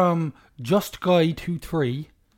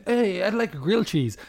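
sarcastic American; 4 semitones higher than usual. Retold or imitated. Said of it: "saying it really sarcastic".

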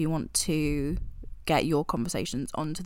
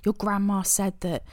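spooky whisper. Acted. Spooky story example, whispered.

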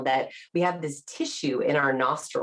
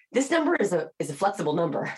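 unsure price; faster than usual. Retold or imitated. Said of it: "the question inflection is telling other people".

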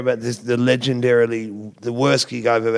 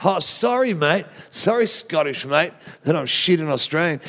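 higher-pitched needling apology; retold snide comeback, pitched up; sarcastic mock apology; 5 semitones higher than usual. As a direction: fake sorry thrown back at a heckler.

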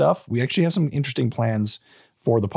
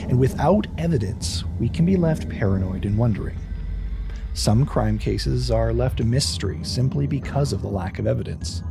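dramatic narration. Acted. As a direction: build tension over the music. Dramatic true crime intro.

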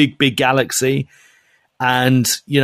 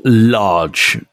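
lightly mimicked Manchester drawl, slow and lower; Manchester accent; 4 semitones lower than usual. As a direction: say it like a swaggering Mancunian. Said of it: "Manchester accent".

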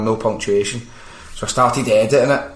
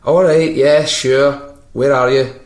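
taxi operator; 4 semitones higher, 5 dB louder, slower than usual. Retold or imitated. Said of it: "So the guy would be like".

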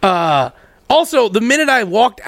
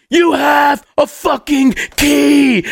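mock angry shout; 6 semitones higher, much slower than usual. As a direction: bark each word back, fed up. Rowdy yelling back.

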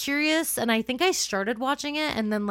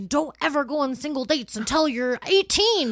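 mock preachy warning; 4 semitones higher, 4 dB louder than usual. Acting out her strict younger self.

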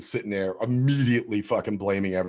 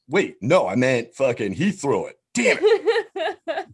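laughing panic; 6 semitones higher, 3 dB louder, slower than usual. Retold or imitated.

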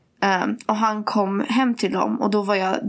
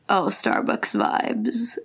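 slow, drawn-out fake-dreamy "oh"; mock ironic gush; much slower than usual. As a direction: parody someone saying it with a straight face. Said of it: "det är ju mer så här".

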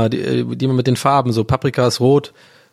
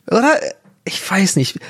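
whispered aside; 7 semitones higher than usual. Real, not acted. Laughing aside after a cheeky thought.

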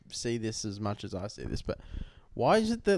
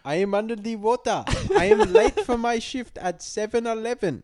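much higher, mock South Asian shop clerk accent; hammed-up South Asian accent like a convenience store clerk; stereotyped South Asian accent; 9 semitones higher, 5 dB louder than usual. Showing the accent joke people call racist, mock South Asian accent. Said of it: "how come they can do that, but then when I go".

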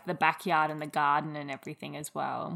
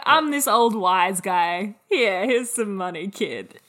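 put-on wise old guy; 3 semitones higher, 7 dB louder, slower than usual. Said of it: "He was like".

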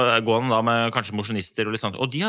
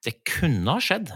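whisper; 2 semitones higher, slower than usual. Acted. Hinting at deliberate sabotage.

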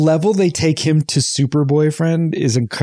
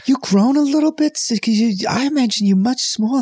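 put-on lightly done Boston accent, higher; half-hearted Boston accent lines; 5 semitones higher than usual. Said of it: "I can't really do a Boston accent".

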